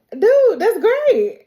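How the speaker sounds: high, loud and slow, drawn-out cheer; excited congrats. Retold or imitated. Nick cheering Barney on, slow and loud. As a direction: stretch it out like a thrilled buddy.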